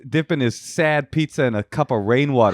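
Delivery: mocking New Yorker rant; lightly voiced Queens local; New York accent. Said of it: "That was pretty good".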